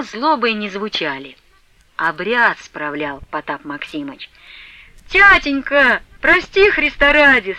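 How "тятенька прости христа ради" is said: higher, louder tearful plea; tearful pleading. A narrator's reading. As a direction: beg through tears. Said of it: "со слезами молила Параша".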